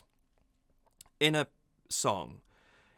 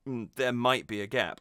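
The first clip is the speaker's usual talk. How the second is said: a thinking "Mm" before "there might be a gap"; hesitation gap. Shown as a demonstration. Speaker replays a natural speech delay, hesitant before the words. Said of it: "I just did one right there".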